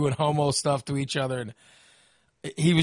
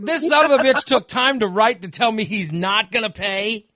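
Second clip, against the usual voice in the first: indignant disbelief; 5 semitones higher, 4 dB louder than usual. Retold or imitated. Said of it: "I'm like".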